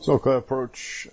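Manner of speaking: pilot on the radio; radio call through a headset mic; pilot cockpit headset. Acted.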